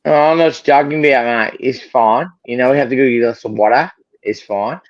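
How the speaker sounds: casual put-on Australian accent; Aussie accent. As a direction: toss it off like an Aussie. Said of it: "you sound like a fucking Aussie".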